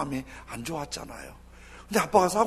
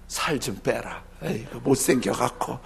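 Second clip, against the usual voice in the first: lightly voiced harsh dad; 4 semitones lower than usual. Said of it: "그 섭섭한 얘기를 많이 해요".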